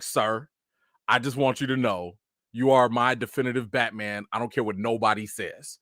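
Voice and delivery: low, sincere address to a hero; solemn fan's declaration; earnest tribute. Retold or imitated. Earnest tribute to admired actor.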